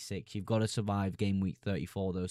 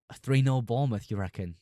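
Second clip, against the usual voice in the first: incredulous; 5 dB louder than usual. Real, not acted. Incredulous at a viewer's prediction.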